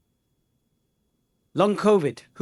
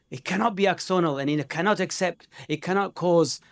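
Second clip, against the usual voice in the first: lightly put-on German accent, higher and louder on the key phrases; bad German accent; 3 semitones higher, 3 dB louder than usual. German neurologist lecturing Riaz on demyelination, bad mock German accent. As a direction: imitate a dogmatic German colleague in a rough German accent. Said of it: "that's a bad German accent".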